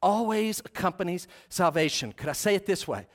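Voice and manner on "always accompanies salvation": "always" given deliberate weight; stress on always. Shown as a demonstration. Preacher rereading his statement, "always" emphasized. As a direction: lean on "always", then finish evenly. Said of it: "I emphasize the word".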